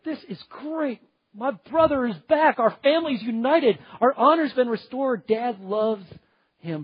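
imagined delight. Retold or imitated. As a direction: cheer like a brother glad to have him back. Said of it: "he'd be like".

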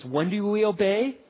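put-on rising call to children; lightly sung-out prompt; call and response. Shown as a demonstration. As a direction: ask the family chant question. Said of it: "one of our little phrases".

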